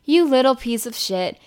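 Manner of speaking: the nagging voice in her head, building to a loud scold; harsh inner critic voice. Retold or imitated.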